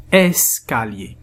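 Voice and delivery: "Escalier" slowly, syllables closer together; slow joined reading. Shown as a demonstration. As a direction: join "Escalier" back up, still slow. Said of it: "nous allons les diviser en syllabes".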